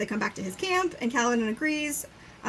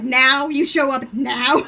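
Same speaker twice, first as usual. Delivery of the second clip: loud, drawn-out retold outrage; mock exasperated yell; 7 dB louder, much slower than usual. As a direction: act out being utterly fed up. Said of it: "I just love that he's yelling".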